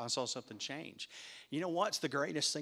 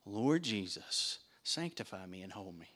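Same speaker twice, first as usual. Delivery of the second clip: quiet prayer; 4 semitones lower than usual. Shown as a demonstration. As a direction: pray it gently, asking. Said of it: "you can say".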